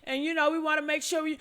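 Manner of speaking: soft, quick sarcastic mimicry of Warren; mocking Warren. Host mocking Warren's safety claims, sarcastic soft mimic. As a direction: parrot his excuse back, dismissively. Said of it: "You said".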